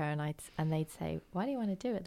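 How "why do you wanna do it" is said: put-on a clumsy, half-hearted American accent; terrible American accent. American agency staff quizzing her on surrogacy, bad American accent. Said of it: "it's a terrible accent".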